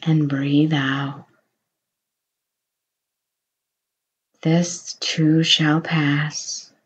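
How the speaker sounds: hushed unvoiced whisper. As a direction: breathe the words out without voice. Whispered breathing cue.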